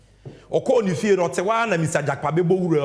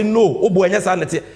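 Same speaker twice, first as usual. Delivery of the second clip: mock loud correction; 6 dB louder than usual. Repeats the correction louder.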